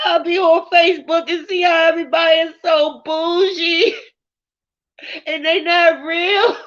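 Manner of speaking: high, tearful voice breaking into sobs; crying. Real, not acted. Telling Khadijah her videos touched her deeply, crying. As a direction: cry for real while pushing the words out. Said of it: "I don't know why I'm crying".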